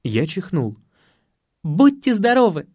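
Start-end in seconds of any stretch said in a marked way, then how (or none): 1.6-2.7 high, hearty bless-you; от всей души. Acted. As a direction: wish it wholeheartedly in a lifted voice. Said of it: "от всей души пожелала Таня". (сердечно, высоким голосом)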